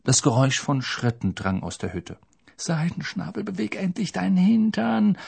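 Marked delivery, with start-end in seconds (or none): 2.6-5.2 high, hushed urgent plea; desperate, kept-down pleading. A narrator's reading. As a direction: beg under your breath, pitched high. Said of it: "flehte Harry".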